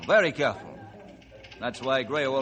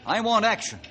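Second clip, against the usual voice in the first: stern angry warning; 4 semitones higher than usual. Acted. Ranger issues stern warning.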